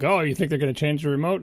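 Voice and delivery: lightly snarky mock question; retold snark, mildly scoffing. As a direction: tease them for believing it. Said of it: "snarky mood of being like".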